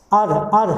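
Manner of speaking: अर said twice as a held er sound; vowel drill. Shown as a demonstration. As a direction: isolate the अर vowel. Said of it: "अर की sound आ रही है".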